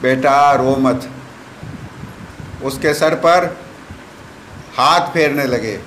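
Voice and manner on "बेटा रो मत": put-on slow, gentle coaxing to a crying child; soothing a child. Guru soothes the crying child, slow and gentle. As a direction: hush the little one tenderly. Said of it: "पुचकारने लगे".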